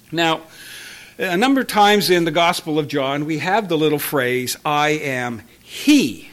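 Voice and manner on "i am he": slow quote. Shown as a demonstration. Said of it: "with the "he" in italics".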